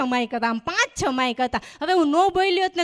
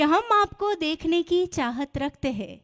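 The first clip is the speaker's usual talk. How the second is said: shayari recital; slower than usual. Retold or imitated. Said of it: "ચાર લીટીની જે કવિતા સંભળાવી".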